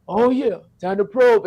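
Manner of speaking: a hint of an alien voice; lightly voiced alien, slow and drawn. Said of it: "see the alien voice".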